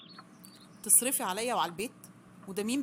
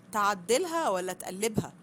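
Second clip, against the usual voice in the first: a slow, louder sneer; slow sarcastic jab; 5 dB louder, slower than usual. Acted. Mother-in-law mocking the husband's claim, drawn-out sarcasm. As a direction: drag it out loud and mocking.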